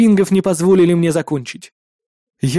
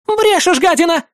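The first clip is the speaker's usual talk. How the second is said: very high, loud screech; roared; 12 semitones higher, 3 dB louder than usual. A narrator's reading. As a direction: scream the insult. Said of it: "вновь взревела". (жена ревёт: «Брешешь, гадина!»)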